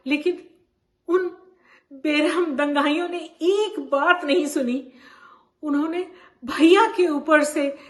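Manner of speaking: distressed. Acted. Champa recalling rioters trampling her brother, distressed. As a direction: press through the horror with heavy emphasis.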